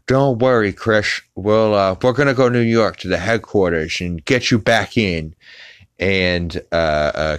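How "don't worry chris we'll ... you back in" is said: higher, slurred cartoon dad; Peter. Peter promising Chris a trip to headquarters, mock cartoon dad reassurance. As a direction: put on a higher cartoon father's voice. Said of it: "And Peter's like".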